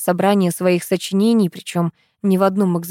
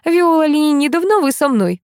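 command; 9 semitones higher, 4 dB louder than usual. A narrator's reading. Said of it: "скомандовала бабка".

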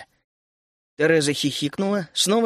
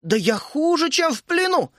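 indignant outburst; 11 semitones higher than usual. A narrator's reading. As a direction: pitch leaping up on плену. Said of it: "топнула вдруг Тереза".

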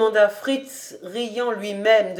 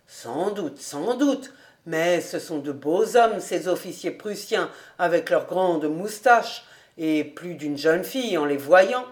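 a hint of the master, musing in a lower pitch; lightly voiced Kobus, conceding; 3 semitones lower than usual. Master conceding to his housekeeper about Prussian officers, lightly voiced.

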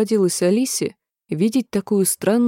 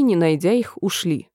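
plain reading voice

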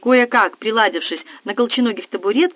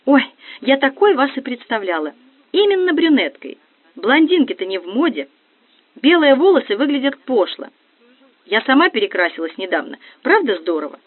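rattling chatterbox; 4 semitones higher than usual. Acted. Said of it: "затарахтела, словно погремушка".

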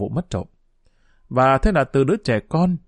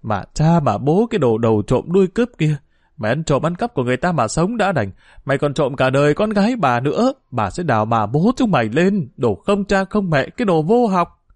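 shrill cursing; 3 semitones higher than usual. Acted. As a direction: scream abuse out the gate at the thief. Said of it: "cất cái giọng the thé chửi".

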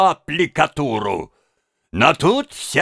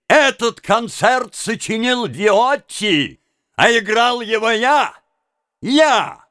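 rising, indignant retold shout; mild mock fury, higher at the end; vexed outcry; 4 semitones higher than usual. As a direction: build to a proud, angry claim. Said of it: "С ещё большей досадой я вскричал".

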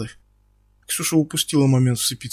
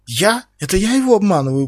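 much higher, louder outraged yell; indignant scream; 6 semitones higher, 5 dB louder than usual. Acted. Ксюша возмущённо вопит на Стаса. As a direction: scream it in disbelief. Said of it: "пуще прежнего завопила Ксюша".

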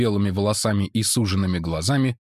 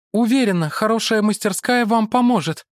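high woman's voice; woman character; 12 semitones higher, 4 dB louder than usual. Acted. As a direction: Mara greets the monk, pitched high. (Мара приветствует монаха высоким женским голосом)

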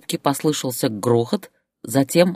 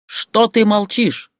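slow, high, furious demand; angry yelling; 8 semitones higher, 4 dB louder, slower than usual. A narrator's reading. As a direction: yell for an answer. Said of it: "продолжал орать Борис". (орёт, требуя ответа)

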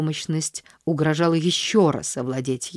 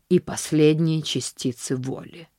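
ordinary delivery, nothing marked

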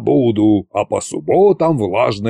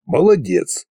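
МОЛОДЕЦ pitched up, then falling; grudging praise; 6 semitones higher than usual. A narrator's reading. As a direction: give МОЛОДЕЦ with a higher, pointed lilt. Koschei dismisses the dragon reproachfully.

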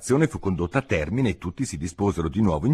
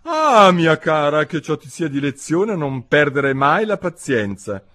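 put-on preachy old mother voice, pitched up; old mother crab; 6 semitones higher, 5 dB louder than usual. A narrator's reading. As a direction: lecture a daughter with a long "ah". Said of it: "una vecchia gambera approfittò per dire a sua figlia".

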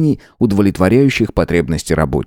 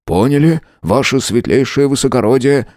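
lightly voiced, higher steady reply; steady subordinate; 6 semitones higher than usual. Subordinate answering his ruler, steady. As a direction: answer firmly. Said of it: "ответил Брандт".

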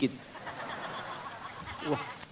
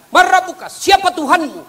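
high, loud interrogating angel; stern angel asking; 12 semitones higher, 7 dB louder than usual. Acted. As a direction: boom the grave question down from above. Angel questions again. (malaikat bertanya dengan suara tinggi dan keras)

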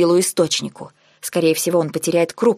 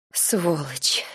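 quiet moan; 7 dB quieter than usual. A narrator's reading. Heroine cursing him to herself, moaned quietly. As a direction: moan the insult softly. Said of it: "простонала я тихо".

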